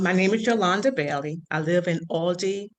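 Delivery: talking through braces; slightly muffled by braces. Real, not acted. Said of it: "'cause I got braces. So I sound kind of funny".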